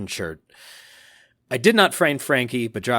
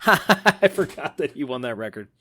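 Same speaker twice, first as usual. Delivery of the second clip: laughing aside; amused, chuckled admission. Real, not acted. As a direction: let a chuckle spill into the words. Amused aside while reading a message.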